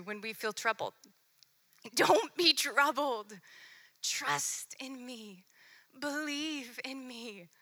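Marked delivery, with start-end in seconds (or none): 1.9-7.5 slow reassuring. Retold or imitated. Pastor voicing Jesus to the troubled, slow and reassuring. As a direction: let each promise land slowly. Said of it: "that famous verse we all cling to".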